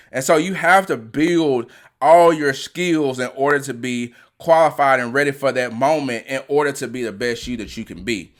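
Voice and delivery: real passion, bursts of emphasis; excited. Real, not acted. Coach urging athletes to build their skills, excited. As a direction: coach getting carried away by what they love. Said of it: "I'm sorry I'm getting excited".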